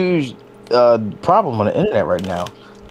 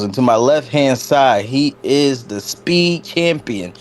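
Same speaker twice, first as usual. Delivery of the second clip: ring announcer intro; 2 semitones higher than usual. Acted. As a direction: draw out the speed champion intro. Introducing second co-host, ring style.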